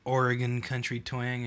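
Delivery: put-on loud, preachy advice to the boys; mock lecture. Advising young guys on winning ladies, loud mock sermon. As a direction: hold forth like a folksy old mentor. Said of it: "mock advice to young men".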